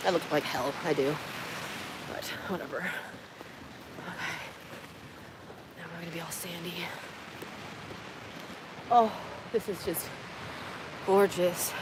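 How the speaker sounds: breathless after the climb; out of breath. Real, not acted. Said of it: "Out of breath".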